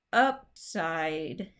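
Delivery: "upside" split into two deliberate beats; "upside" pulled apart to show its stress; stressed-syllable demo. Shown as a demonstration. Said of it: "only gonna have one stressed syllable".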